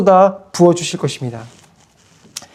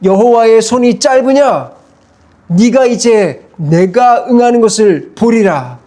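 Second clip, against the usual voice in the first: measured preacher's thunder, half acted; retold thunderous rebuke; 3 semitones higher, slower than usual. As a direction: boom it out as God scolding Moses a little. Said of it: "불호령을 내리셨어요".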